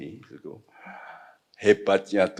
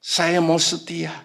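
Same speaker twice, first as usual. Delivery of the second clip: retold prayer; 8 semitones higher than usual. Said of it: "saya berkata".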